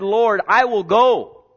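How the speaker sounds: "I've come for thy words" cried out high, loud and slow; loud slow proclaiming. Acted. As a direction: proclaim it like a vow from the pulpit. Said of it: "people in here that have said".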